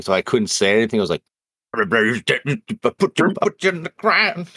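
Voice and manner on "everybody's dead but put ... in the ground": a weak attempt at a gravelly growl; low gravel vigilante growl. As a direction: try for a growl, voice slipping up high. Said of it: "growly voice thing is not one I'm very good at".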